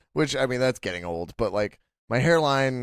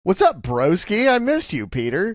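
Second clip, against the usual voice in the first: peppy breathy workout coach; 8 semitones higher, 7 dB louder than usual. Pretend. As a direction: hype him up like a trainer. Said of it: "She talks like she's your personal trainer".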